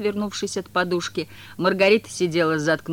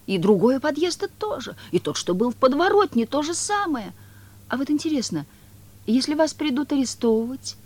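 higher, fussy storyteller voice; Koroviev's voice; 9 semitones higher, 4 dB louder than usual. A narrator's reading. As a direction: chatter on, a little theatrical. (Коровьев, выше и суетливо)

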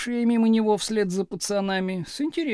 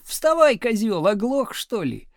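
shouting; 3 semitones higher than usual. A narrator's reading. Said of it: "услужливо закричали несколько голосов".

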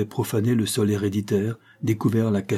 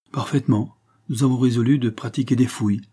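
stern; 3 semitones higher than usual. Acted. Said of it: "d'un ton sévère".

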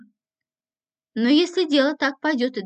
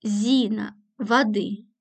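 a mild weak moan, lower; lower, half-hearted sickbed moan; 5 semitones lower, much slower than usual. Acted. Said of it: "Он опять простонал".

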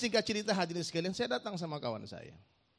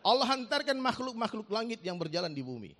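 louder, higher preacher's phrasing; borrowed preacher cadence, louder; imitating a preacher; 6 semitones higher, 5 dB louder than usual. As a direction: deliver it like the Ustaz. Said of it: "Wah, ini bahasa Ustaz".

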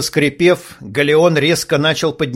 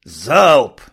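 one sharp loud command; shouted order; 3 dB louder than usual. Acted. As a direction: bark it like a cannon cue. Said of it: "и проорал". (громкий крик «Залп!»)

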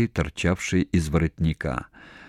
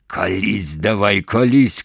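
slow push, then a louder shout; shouted demand; 3 dB louder, slower than usual. A narrator's reading. Interrogator yells at the beaten prisoner to confess. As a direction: press him, then yell. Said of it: "крикнул следователь".

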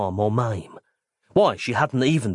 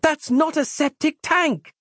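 alarmed shout. Acted. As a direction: shriek it in panic. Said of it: "Roz said".

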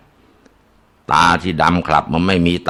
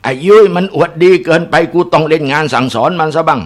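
much higher, louder spiteful spirit voice; shrill-free but strained high ghost voice of a vengeful spirit; possessing ghost's voice; 10 semitones higher, 4 dB louder than usual. A narrator's reading. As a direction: let the dead man speak through him, vengeful. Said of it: "เป็นเสียงนายอ่อนชัดๆ".

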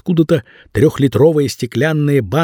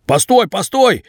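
put-on protesting young man; 10 semitones higher than usual. A narrator's reading. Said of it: "тормозил Куролесов каблуками".

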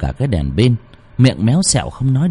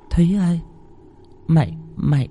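put-on scared old cook; 7 semitones higher, 3 dB quieter, faster than usual. A narrator's reading. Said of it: "Bà bếp vỗ vai con Thúy".

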